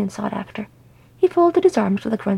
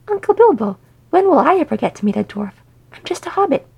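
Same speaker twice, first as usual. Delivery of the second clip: put-on higher-pitched, delighted young hobbit; delighted child; 6 semitones higher, 3 dB louder than usual. A narrator's reading. Frodo delightedly asking his uncle about dwarves, voice lifting high. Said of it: "Frodo laughed delightedly".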